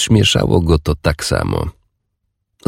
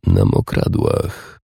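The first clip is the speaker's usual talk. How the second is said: much lower, slow whispered reply; 10 semitones lower, 5 dB quieter, slower than usual. A narrator's reading. Warrior whispering low to Urdis.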